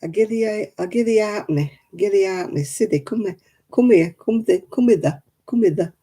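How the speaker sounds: lightly imitated old Oldham grandad, "give thee a halfpenny"; Grandad Butterworth's Oldham dialect. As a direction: coax the child in broad Oldham dialect. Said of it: "he used to say".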